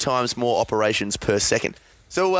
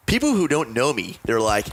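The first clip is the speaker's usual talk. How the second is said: put-on British accent, deliberately enunciated; attempted British accent. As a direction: mimic a woman with a new British accent. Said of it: "I'll get the accent right".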